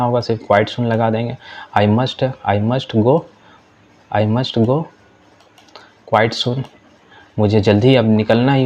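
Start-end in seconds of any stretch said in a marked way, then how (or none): 1.8-6.6 slow, careful classroom English; deliberate teacher read-aloud; slow model reading. Shown as a demonstration. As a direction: spell each word out slowly for learners. Teacher reads model sentence.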